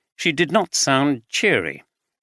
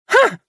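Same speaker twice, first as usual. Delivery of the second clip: contemptuous huh; 7 dB louder than usual. A narrator's reading. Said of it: "she shouted in contempt".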